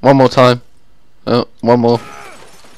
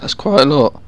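voice crack; 4 dB quieter than usual. Real, not acted. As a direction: voice cracking mid-line. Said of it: "Wow, voice crack".

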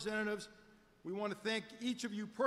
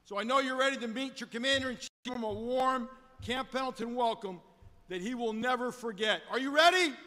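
rallying call; 4 dB louder than usual. Real, not acted. Officer rallies crowd before President.

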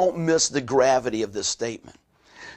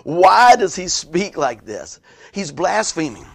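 mildly indignant challenge, higher and louder opening; slow, stressed retold accusation; questioning scribes; 3 semitones higher, 6 dB louder, slower than usual. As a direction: question him like an offended scribe. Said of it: "scribes were sitting there questioning".

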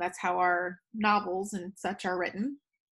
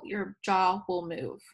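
slow demo; slower than usual. Shown as a demonstration. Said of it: "say it out loud".

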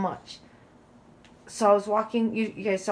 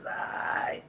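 drawn-out, high mock wail; mock crying; 7 semitones higher, 5 dB quieter, much slower than usual. Daughter imitates her mom making a crying scene, mock sobbing. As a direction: imitate a crying guilt trip, slow and whiny. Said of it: "Like, she's crying".

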